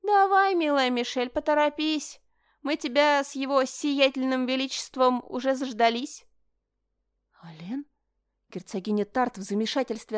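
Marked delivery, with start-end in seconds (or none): 0.0-6.2 higher, louder mocking call. A narrator's reading. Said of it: "крикнул в сторону распахнутой двери". 7.4-7.9 soft, breathless question; surprised whisper. Acted.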